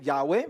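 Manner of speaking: Yahweh said as two syllables, YAH-weh; "Yahweh" with a w glide before the final e; Yahweh pronunciation variant. Shown as a demonstration. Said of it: "¿Cómo se pronuncia?".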